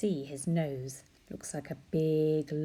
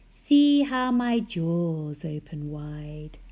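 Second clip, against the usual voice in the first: slow menacing; 7 dB louder, slower than usual. Acted. Menacing shark.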